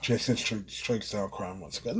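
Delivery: flat, lifeless monotone reading. Shown as a demonstration. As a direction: read it dead flat, no emotion. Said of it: "reading in the monotone voice".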